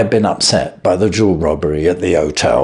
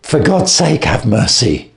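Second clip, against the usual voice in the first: shrieking plea; 3 semitones higher than usual. Acted. Thief clutching the detective's knees, begging in a shriek. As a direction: beg as if your life depends on it. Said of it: "he shrieked".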